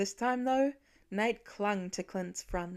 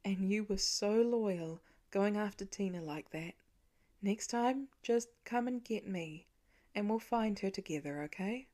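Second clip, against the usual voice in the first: tender. Acted. Father tenderly consoling.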